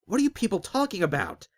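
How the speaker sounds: high, loud frustrated shout. Acted. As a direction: yell it at the crowd. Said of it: "Azric shouted".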